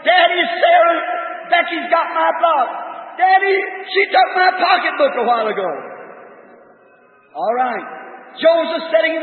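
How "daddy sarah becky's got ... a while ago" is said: a mild imitation of a little girl yelling for Daddy; mock child's yell. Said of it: "Sarah screaming to the top of her voice".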